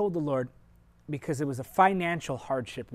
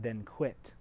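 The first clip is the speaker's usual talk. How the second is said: sharp retort; 5 semitones lower, 6 dB quieter than usual. Retold or imitated. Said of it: "He spoke it very sharply".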